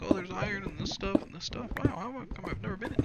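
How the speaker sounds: high-pitched imitation of wonder; excited discovery. Gamer recalling iron spotted in a cave, excited discovery.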